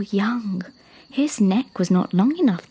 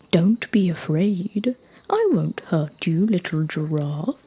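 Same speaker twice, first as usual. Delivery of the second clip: reassuring big creature; 2 semitones lower than usual. Acted. Rock reassuring a little giraffe, lightly voiced gentle giant.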